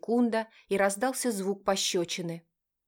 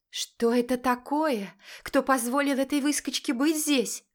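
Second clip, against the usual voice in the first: furious mother spotting an unwanted guest; angry, scornful mother; 6 semitones higher than usual. A narrator's reading. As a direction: demand it with rage and contempt. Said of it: "Столько гнева, отчаяния и презрения".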